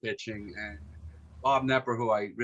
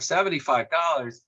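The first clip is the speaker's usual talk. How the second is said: "Seventy-five dollars?" echoed higher, in disbelief; surprised echo; 5 semitones higher than usual. Retold or imitated. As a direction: repeat the price back as if it's outrageous. Davenport echoes the price in disbelief.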